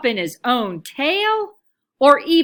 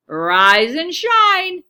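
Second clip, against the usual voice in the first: rousing call; 5 semitones higher, 5 dB louder, much slower than usual. A narrator's reading. Camilla rousing leaves.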